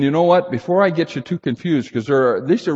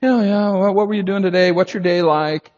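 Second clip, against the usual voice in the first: casual chit-chat; 5 semitones higher than usual. Retold or imitated. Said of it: "he wasn't just saying".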